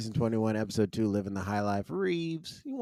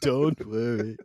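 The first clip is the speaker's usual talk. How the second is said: sung in a fake Jamaican accent; crooned fake Jamaican accent; 4 dB louder, slower than usual. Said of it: "He's doing fake Jamaican accent".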